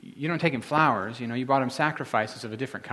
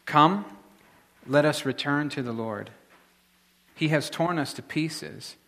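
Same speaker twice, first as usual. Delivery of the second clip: scripture reading. Shown as a demonstration. Preacher reading Hosea to the congregation, steady and measured. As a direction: read the verses steadily aloud. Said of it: "Let me read this to you".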